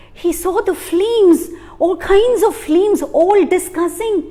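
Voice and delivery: slow, high, wondering; amazed. A narrator's reading. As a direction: reveal it slowly with wonder. Amazed discovery of flames.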